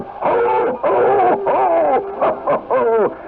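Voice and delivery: put-on high, jolly radio Santa ad-libbing to the kids; lively hammed-up Santa. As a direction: play Santa confiding to boys and girls. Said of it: "I began to ad lib little things".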